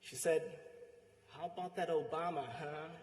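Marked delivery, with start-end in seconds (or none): 1.3-2.9 lightly imitated American accent; attempted American accent. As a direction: try your best American accent, mildly. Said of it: "in her American accent".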